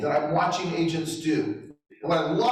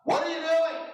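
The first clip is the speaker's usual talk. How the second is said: high, ironic rebuke; mock gentle question; 13 semitones higher than usual. Shown as a demonstration. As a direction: pretend to be gentle but pitch it up high. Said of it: "here's what I would just gently say to you".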